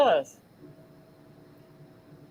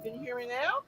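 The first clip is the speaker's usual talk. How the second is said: very faint, bad audio; faint voice over a poor connection; barely audible; 14 dB quieter, faster than usual. Real, not acted. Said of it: "I can barely hear you".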